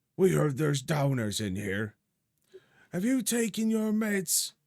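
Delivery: gruff, very high voice. Narrating a scene: after loud knocking at the door, a voice speaks: gruff voice. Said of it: "followed by a gruff voice saying".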